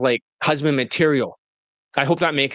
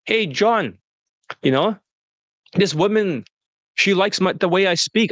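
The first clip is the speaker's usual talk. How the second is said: lightly voiced client, pitched higher; mock the client's eager higher-pitched report; imitating excited client; 3 semitones higher than usual. Client boasting to his coach John, imitated in a higher voice. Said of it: "So he'd be like".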